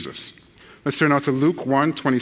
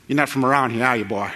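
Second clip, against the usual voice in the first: put-on Union Parish local accent. Local questioning an outsider, mock Union Parish accent. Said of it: "heard the same thing from someone".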